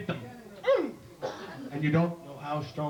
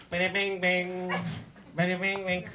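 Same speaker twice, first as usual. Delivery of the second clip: imitated banjo; slower than usual. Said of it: "sitting there with his banjo".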